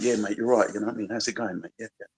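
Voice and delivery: casual British-accented banter, lightly mimicked; imitating British mate talk. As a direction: put on a matey British accent. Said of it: "I don't speak like that".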